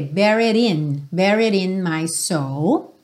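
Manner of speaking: "Buried" with its D flapped into in; linked D. Shown as a demonstration. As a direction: flap the D of "Buried" into in. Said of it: "rarará no D".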